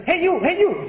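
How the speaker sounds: high, swooping bird call; talking parrot. Acted. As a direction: squawk it out like a parrot calling a passerby. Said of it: "the parrot says".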